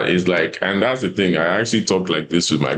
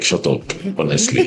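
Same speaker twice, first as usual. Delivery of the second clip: higher, fed-up mock snap back; imitating his own irritated reply; exasperated retort. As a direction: brush the comforter off, half-joking. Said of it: "it's like".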